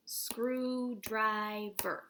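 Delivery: "screwdriver" stretched very slowly, split into screw-dri-ver; slow syllable-by-syllable teacher reading; syllables clapped out. Shown as a demonstration. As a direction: break screwdriver into its three syllables for children.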